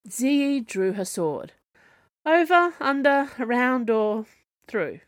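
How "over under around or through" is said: starts high and loud, falls off; eager rising list. A narrator's reading. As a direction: rattle off the options with growing eagerness. Ziyi poses options before charging.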